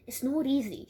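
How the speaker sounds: put-on amateur Australian accent. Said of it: "keep up an Australian accent".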